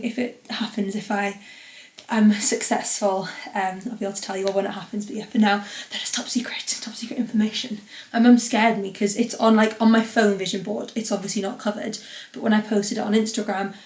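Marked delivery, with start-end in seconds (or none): 5.9-7.8 playful whisper. Pretend. Podcaster whispers the secret to her listeners, playful whisper. Teasing about a secret plan.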